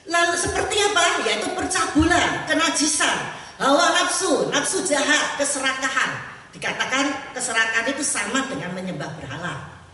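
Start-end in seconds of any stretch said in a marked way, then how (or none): 0.1-6.3 forceful listing. Real, not acted. Preacher lists sins forcefully.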